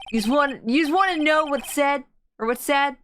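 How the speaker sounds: lightly voiced Italian-American mobster; a hint of New York wiseguy. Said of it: "Typical mobster".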